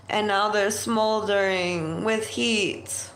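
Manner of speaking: measured poetic delivery with long pauses; poem recital. Acted. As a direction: recite it like spoken-word verse, line by line. Improvises a spoken poem.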